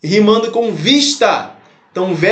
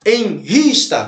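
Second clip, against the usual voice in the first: "enrista" slowly, with "ris" leaning out; stress on RIS; slower than usual. Shown as a demonstration. Teacher asking which syllable is strongest, stress on "ris" in "enrista". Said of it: "Qual que é a sílaba mais forte?".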